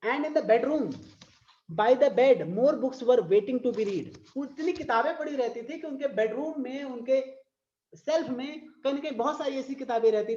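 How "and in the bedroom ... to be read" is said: slow, sing-song poem reading; drawn-out recital voice; poem recitation. Shown as a demonstration. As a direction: read it out like a verse for class.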